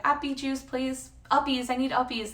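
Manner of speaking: put-on playful baby-voice request; babyish voice. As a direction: whine it like a toddler. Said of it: "I was like".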